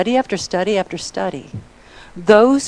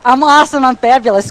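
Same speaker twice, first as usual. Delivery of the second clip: louder, proud boast; mock bragging; 3 semitones higher, 4 dB louder than usual. Shown as a demonstration. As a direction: show the crowd how to brag. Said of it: "Go brag".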